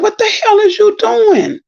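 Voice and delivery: high-pitched, indignant retold outburst; retold cussing out. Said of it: "I was cussing him the hell out".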